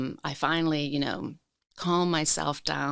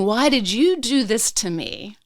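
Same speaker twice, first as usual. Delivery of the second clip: high, raised-voice anguished accusation; berating; 9 semitones higher, 4 dB louder than usual. Retold or imitated. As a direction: re-enact scolding your own body, pitched up and pleading. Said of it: "basically berating my body".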